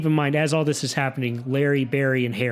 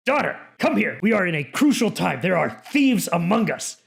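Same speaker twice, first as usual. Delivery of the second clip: urgent father; 4 semitones higher, 3 dB louder than usual. Acted. Father calls daughter.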